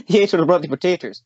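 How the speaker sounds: laughing repeat. Real, not acted. Repeating the joke's punchline to his friend, laughing. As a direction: relish the punchline through laughter.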